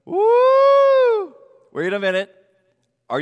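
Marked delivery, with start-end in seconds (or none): 0.1-1.3 excited whoop. Real, not acted. Birthday matches requirement.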